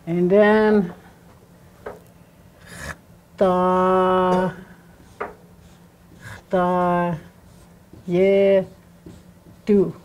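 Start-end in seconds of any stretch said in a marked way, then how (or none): 3.4-9.9 "ta, ta, ye, tu" one drawn-out syllable at a time; teacher's slow, separated "ta, ta, ye, tu"; syllable breakdown. Shown as a demonstration. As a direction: sound out "ta, ta, ye, tu" with long pauses between. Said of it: "It's a breakdown".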